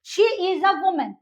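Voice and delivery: each word set apart, slow; slow demo. Shown as a demonstration. Teacher modelling English for students, slowly. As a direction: model the sentence for learners. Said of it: "ऐसे".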